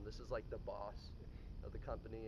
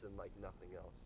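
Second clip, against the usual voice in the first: screamed high hype intro voice; hype streamer intro; 8 semitones higher, 23 dB louder than usual. Pretend. To the audience, imagining his channel intro, a screamed hype greeting. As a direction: yell it like an over-the-top streamer opening.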